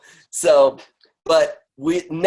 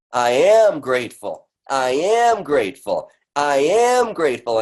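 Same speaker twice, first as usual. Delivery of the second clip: firm, deliberate affirmation, stress on am; affirmation said aloud. Shown as a demonstration. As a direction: declare it like you mean it. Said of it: "I say it out loud three times".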